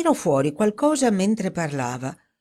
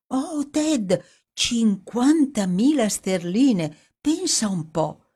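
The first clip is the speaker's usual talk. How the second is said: higher, animated woman reading the news aloud; Dorothy reading out headlines; 5 semitones higher than usual. Acted. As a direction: read the headlines with growing amazement.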